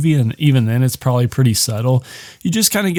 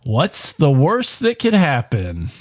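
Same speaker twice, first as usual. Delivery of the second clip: higher-pitched pushy friends; pushy encouragement; 5 semitones higher than usual. Retold or imitated. Friends pushing the couple to visit, mock encouragement. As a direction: egg them on, drawing out the last question. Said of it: "friends are kinda pushing it".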